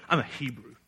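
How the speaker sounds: firm, self-assured I'm a Hebrew; proud declaration. Shown as a demonstration. Preacher shows Jonah's boast to sailors, proudly. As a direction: say it with your chest out. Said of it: "With pride in his voice".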